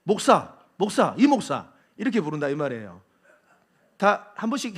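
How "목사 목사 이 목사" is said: louder, dismissive calling out; disrespectful address. Retold or imitated. A disrespectful churchgoer calling the pastor, dismissive. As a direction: toss off the title with contempt. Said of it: "함부로 부르는 사람은".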